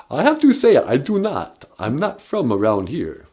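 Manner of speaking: lightly voiced vampire, proud of Transylvania; a hint of the Count, explaining grandly; mild mock Count accent. Count voice answering host.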